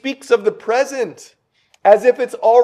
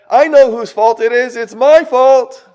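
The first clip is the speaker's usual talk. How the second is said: raised, louder acted confession, slowing at the end; emphatic owning up; 5 semitones higher, 5 dB louder than usual. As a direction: proclaim the blame as your own. Imagined churchgoer owning the blame.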